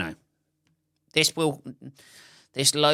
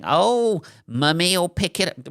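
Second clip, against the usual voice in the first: higher, sing-song parent voice; mock baby-talk mummy; 7 semitones higher, 3 dB louder than usual. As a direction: coo like a doting mum. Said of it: "parents who start talking like babies".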